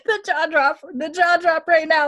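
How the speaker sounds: high, loud and excited; excited disbelief. Real, not acted. Host reacting to the scene, high and excited. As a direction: gush about the shock. Describes own shock excitedly.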